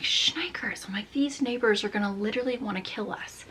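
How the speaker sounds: hushed, panicky whisper so the neighbors won't hear; panicked whisper. Retold or imitated. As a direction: breathe the words out in alarm, barely voiced.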